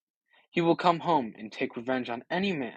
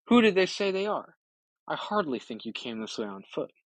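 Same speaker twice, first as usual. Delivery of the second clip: eager questions; 3 semitones higher than usual. Acted. Eumaeus eagerly questions the stranger.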